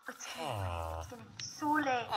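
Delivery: low, soft whispered warning; spooky whisper. Real, not acted. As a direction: whisper it as night falls. Night falling in the game.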